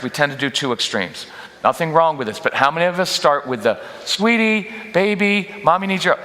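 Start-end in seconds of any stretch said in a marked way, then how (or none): 4.0-6.2 high sing-song sweet talk; sing-songy mommy tone. Shown as a demonstration. Mom cooing at her child in a high sing-song. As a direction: coo it up high like a sugary mom. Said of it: "the sing-songy mommy tone".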